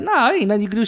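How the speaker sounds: play-acted, amused, laughing brush-off. Retelling how the waitress laughed when begged to let them help in the back: imitating a laughing waitress. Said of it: "She's like laughing".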